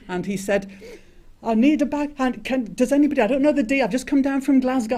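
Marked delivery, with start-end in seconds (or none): 1.4-4.9 high, loud, rushed Glasgow voice; a wobbly attempt at a Glasgow accent. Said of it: "I can't do a Glasgow accent".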